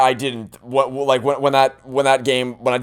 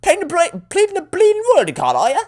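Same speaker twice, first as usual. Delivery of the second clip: high, chirpy Cockney-style detective voice; high-pitched, slangy ribbing; cheeky detective; 3 dB louder than usual. Acted. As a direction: tease the lawyer in a much higher voice. Detective character needles witness.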